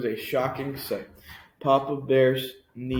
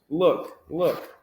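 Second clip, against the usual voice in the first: higher, small cub voice calling Look; a tiny bear cub crying out; wee little voice; 5 semitones higher, 3 dB louder than usual. A narrator's reading. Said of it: "his wee little voice".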